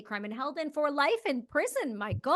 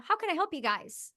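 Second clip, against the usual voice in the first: put-on friendly small-town Canadian accent, pitched a bit higher; easygoing Canadian guy at his door; 5 semitones higher than usual. Homeowner greeting the agents in a Canadian accent. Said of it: "I'm gonna try to do the Canadian accent".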